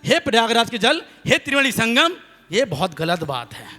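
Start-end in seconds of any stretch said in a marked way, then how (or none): 0.1-2.2 mock invocation. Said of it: "हमने कहा, हे जल".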